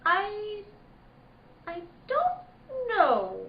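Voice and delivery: slow, broken and tearful; tearful halting. Acted. Girl questioned about the gun, tearful and halting. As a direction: choke the words out slowly.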